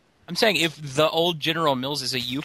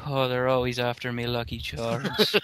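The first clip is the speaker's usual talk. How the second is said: mock afterglow contentment; 2 semitones lower than usual. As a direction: sigh it out in pretend afterglow. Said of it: "enjoying the afterglow".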